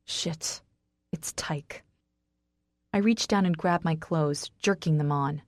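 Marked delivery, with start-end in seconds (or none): 0.1-1.8 whispered curse to oneself; hushed alarm. A narrator's reading. Wife realising who is at the door, whispering. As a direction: whisper it, very soft.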